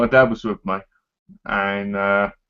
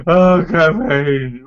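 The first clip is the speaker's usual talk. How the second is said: drawn-out wailing; mock crying; 2 semitones higher, 4 dB louder, much slower than usual. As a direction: sob it out slowly. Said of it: "I was crying like this".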